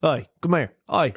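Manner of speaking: mock Southern redneck hailing someone; imitated Southern heckler; obnoxious redneck. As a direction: pester in a put-on redneck accent. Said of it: "obnoxious redneck that's like".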